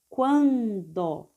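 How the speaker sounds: "Quando" split into quan, do; teacher's slow two-beat "Quando"; syllable by syllable. Shown as a demonstration. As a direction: sound out "Quando" with a held first syllable. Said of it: "vamos ler passo a passo".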